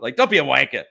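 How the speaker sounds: amateur put-on Cockney; attempted Cockney accent. Guest shows the word he uses a lot, attempted Cockney accent. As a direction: try it in a rough Cockney accent. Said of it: "I gotta work on my Cockney".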